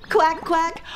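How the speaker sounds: high-pitched quacking; playful ducky double quack; duck quack. Pretend. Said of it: "I'm a duck".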